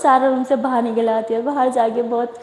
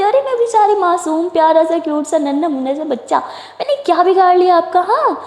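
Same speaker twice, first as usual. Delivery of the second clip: mock innocent; 5 semitones higher than usual. Playing innocent baby.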